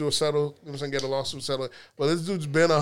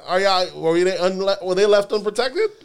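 heated rant; 5 semitones higher, 5 dB louder than usual. Real, not acted.

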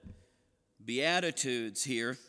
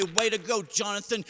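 lightly imitated upbeat coach, higher pitch; higher, cheery sideline praise; encouraging coach; 5 semitones higher than usual. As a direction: cheer a player coming off the field. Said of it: "he was an incredible encourager".

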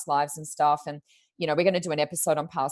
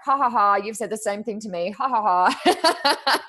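mock laughter; 5 semitones higher, 4 dB louder, slower than usual. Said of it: "All my clients are like".

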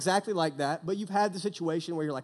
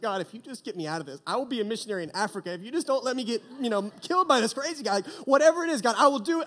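desperate prayer; 3 semitones higher, faster than usual. Retold or imitated. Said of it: "one of those prayers like".

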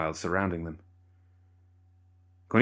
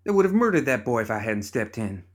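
angry shout; 4 semitones higher than usual. Acted. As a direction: still shouting at him. Heated argument with father.

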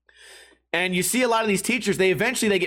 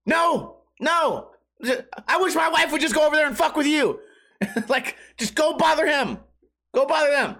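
high, fast shouting retort; mock exasperated yell; 8 semitones higher than usual. Boyfriend yells back at the heckler, hammed-up exasperation. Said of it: "it's like".

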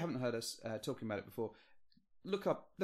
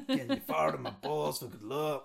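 rock singer impression; 2 semitones higher, 4 dB louder than usual. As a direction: growl it like the goat rock singer. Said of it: "I've done an impression on this".

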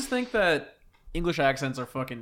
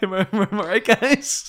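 cheesy comedian; 6 semitones higher, 8 dB louder than usual. Pretend. Acting the bad pun teller.

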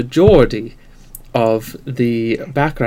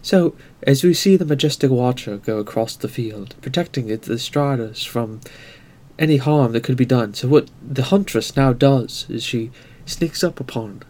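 David Attenborough narration. Retold or imitated. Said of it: "post-future David Attenborough".

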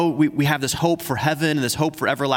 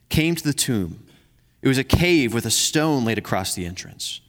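measured, earnest Bible reading; scripture reading. Acted. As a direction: read the passage like a pastor to the church. Reads scripture passage aloud.

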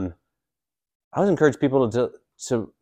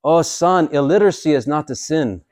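put-on higher, louder old priest reassuring; kindly priest; 4 semitones higher, 3 dB louder than usual. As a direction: play the old Irish priest, bigger. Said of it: "the Irish priest is like".

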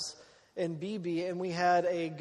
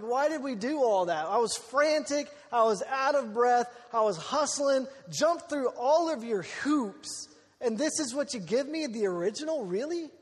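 higher-pitched, mock-indignant protest; exasperated rant; 4 semitones higher than usual. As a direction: act out a frantic complaint at useless officials. Retold indignant rant at officials.

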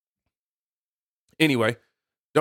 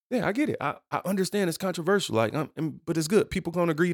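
soft, higher-pitched reply; defensive other self; 3 semitones higher, 4 dB quieter, faster than usual. Pretend. Host answering his stern self, softly defensive. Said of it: "have a meeting with myself".

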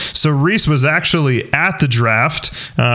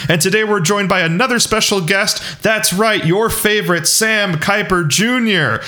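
hype intro; 4 semitones higher than usual. Pretend. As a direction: roll out the name like a ring announcer. Hyping up the guest's introduction.

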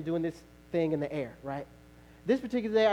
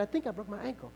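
higher, hushed into his ear; stage whisper; 4 semitones higher, 5 dB quieter than usual. Retold or imitated. To his friend while singing, hushed and strained. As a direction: murmur it so the audience won't hear. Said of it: "I'm whispering in his ear".

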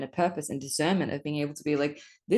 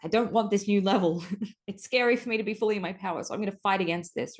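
higher, fast, fearful inner voice; scared ego voice; 4 semitones higher than usual. Retold or imitated. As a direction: voice a scared ego fighting back. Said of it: "My ego that was like".

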